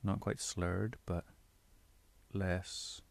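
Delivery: relaxed diction with unhurried gaps. Shown as a demonstration. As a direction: ease off, not quite slurred. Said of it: "calmer and a little bit more, not quite slurred".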